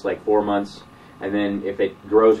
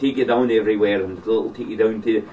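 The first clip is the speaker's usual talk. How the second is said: lightly imitated Scottish accent; hint of comic Scottish patter. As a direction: imitate a Scottish local rambling on. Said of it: "this is Scottish, like, Scottish accents".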